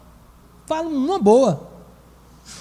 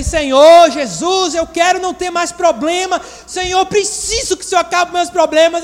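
mock pleading prayer; 8 semitones higher, 5 dB louder than usual. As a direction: ham up a believer begging Jesus. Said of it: "Ele diz assim". (fiel orando pedindo o fim dos problemas, súplica exagerada)

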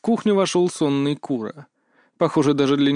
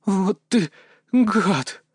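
panting; 7 semitones higher, much slower than usual. Acted. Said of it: "пропыхтела, запыхавшись Мия".

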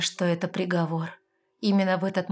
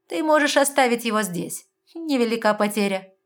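disdainful; 4 semitones higher, 5 dB louder than usual. A narrator's reading. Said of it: "брезгливо бросила девушка".

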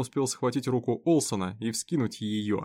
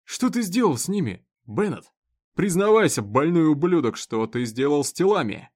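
loud, demanding and higher; angry interrogation; 4 semitones higher, 6 dB louder than usual. Acted. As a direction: force the confession out of him. Sheriff interrogates the prisoner.

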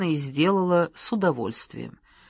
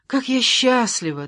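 delighted; 7 semitones higher than usual. A narrator's reading. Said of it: "в восхищении".

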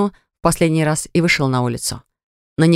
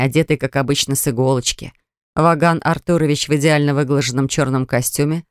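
usual speaking voice

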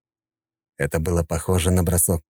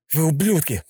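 Вы ублюдки said louder and higher; louder defiance; 10 semitones higher than usual. A narrator's reading. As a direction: throw Вы ублюдки right in his face. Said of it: "уже громче повторил Йохан".

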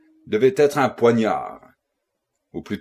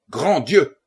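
mildly raised exclamation of horror; understated horrified cry; 4 semitones higher than usual. A narrator's reading. Narrator voices his own terrible cry on seeing the hand, mildly horrified. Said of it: "en poussant un cri terrible".

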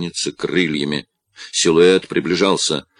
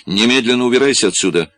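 loud, fast, higher order; angry shout; 6 semitones higher, 5 dB louder, much faster than usual. Acted. Father orders his daughter away, angry shout. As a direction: bark the order at her fast and high. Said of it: "закричал ей Кингшип".

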